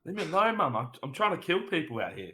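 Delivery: high, whiny brush-off to mum; cheeky teen to mum. Retold or imitated. Teenage son brushing off mum over rugby, high whiny retort. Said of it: "teen brushing off his mum".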